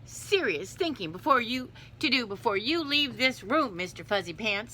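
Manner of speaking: lightly voiced stern mother, stressed words; scolding cat mother. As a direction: read a mother cat's telling-off emphatically.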